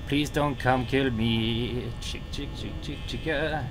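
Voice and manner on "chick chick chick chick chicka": calling chickens. Pretend. Calling to Chica.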